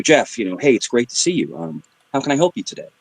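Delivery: smooth salesman greeting a customer; lightly put-on helpful sales voice. Shown as a demonstration. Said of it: "That's your salesman voice".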